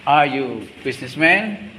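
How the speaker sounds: Are you businessman said slowly with a rising question tune; slow it down and lift the end of Are you businessman; slow model question. Shown as a demonstration. Teacher models the question slowly for pupils.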